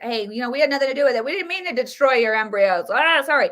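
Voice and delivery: fast, flippant mock excuse; breezy fake apology, brushing it off. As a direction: rattle off a careless sorry. Mocking doctors' careless excuse.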